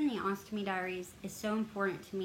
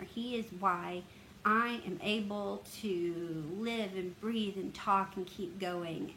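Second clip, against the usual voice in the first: emotional; slower than usual. Real, not acted. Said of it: "I'm getting emotional".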